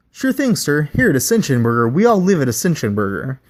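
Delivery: bright high customer-service lilt; chirpy fast-food pitch; scripted burger mascot. Acted. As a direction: sell the creepy creed with a smile. Burger bot answers.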